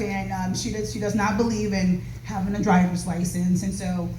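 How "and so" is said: breathless, winded speech; talking while short of breath. Real, not acted. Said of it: "I'm out of breath".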